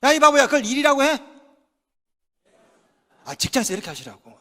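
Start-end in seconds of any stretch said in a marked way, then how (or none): 0.0-1.2 angry boss. Pretend. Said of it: "상사가 이렇게 얘기하면".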